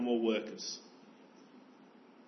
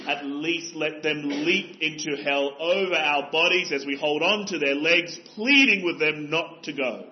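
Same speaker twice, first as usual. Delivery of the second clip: impassioned plea; 4 dB louder than usual. Real, not acted.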